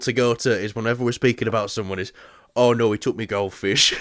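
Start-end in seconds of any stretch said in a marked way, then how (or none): 2.6-3.9 put-on Yorkshire accent. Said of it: "Yorkshire accents for everyone".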